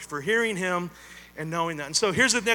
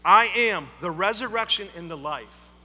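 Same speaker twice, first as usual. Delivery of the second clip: loud proclamation; 8 dB louder than usual. Acted. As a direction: declare it loudly, ringing and full. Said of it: "Jesus says".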